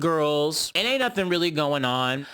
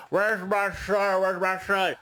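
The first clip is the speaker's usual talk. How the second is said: higher, slow droning mimicry; incoherent sick woman; 4 semitones higher than usual. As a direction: imitate a woman out of it, stuck on repeat. Imitating sick woman's repeated cry.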